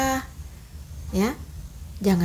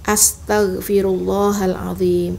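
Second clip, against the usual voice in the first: model recitation; 2 semitones lower than usual. Shown as a demonstration. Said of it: "bacaan istighfar".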